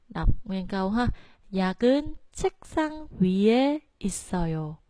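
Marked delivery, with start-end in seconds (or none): 1.5-4.8 약, 위 and 있 start low, 책 goes up; low starts, 책 high. Shown as a demonstration. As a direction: lift 책, drop 약, 위, 있. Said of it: "cho nên chúng ta đọc lên".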